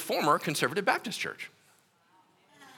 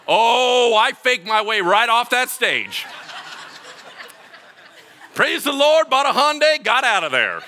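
louder, higher, laughing through it; laughing exclamation; 7 semitones higher, 8 dB louder than usual. Real, not acted. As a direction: celebrate the escape while laughing. Punchline with laughter.

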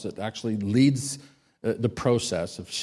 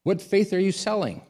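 Italian woman's welcome; 7 semitones higher than usual. Retold or imitated. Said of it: "And she said".

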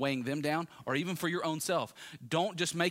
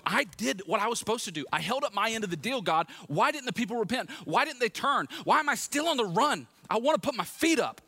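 frustrated outburst, much higher and building louder; Elijah; 9 semitones higher, 5 dB louder than usual. Acted. Elijah complains to God about his lot, frustrated and escalating. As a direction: plead indignantly, rising into a loud whine of protest. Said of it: "that's what Elijah is here".

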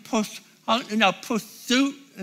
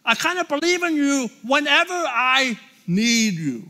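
half-hearted prayer; 5 semitones higher than usual. Pretend. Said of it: "He's not saying".

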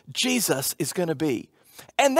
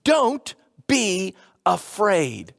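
gentle reassurance; much slower than usual. Retold or imitated. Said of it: "And Gabriel says to them".

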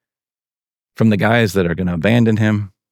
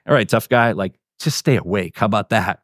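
low, understated comeback to a boaster; gently puncture the bravado, pitch dropped; wry deflation; 4 semitones lower than usual. Retold or imitated. Jesus deflating Peter's boast.

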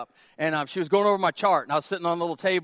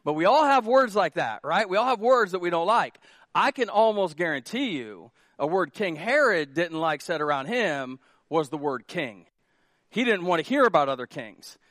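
ordinary talk, nothing marked

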